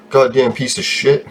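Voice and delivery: annoyed curse at the computer; frustrated cursing; muttered curse. Real, not acted. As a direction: swear at it under your breath. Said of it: "Or God bless".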